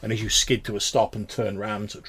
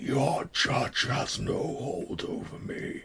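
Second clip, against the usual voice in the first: gurgling, choked, strangled creature voice, dragged very slow; 4 semitones higher, 3 dB quieter than usual. A game master voices a figure that has just caught the blade, gurgled strangulated voice. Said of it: "in this like gurgled, sort of strangulated voice".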